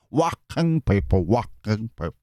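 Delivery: slow mock puppet chant; lightly voiced mad puppet; demented Zippy voice. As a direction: drawl it like a crazed puppet. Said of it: "sounding more demented zippy now".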